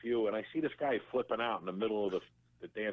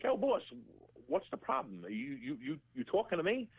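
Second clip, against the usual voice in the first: tough-guy challenge; 12 semitones higher than usual. Retold or imitated. Confronting the guy at wedding.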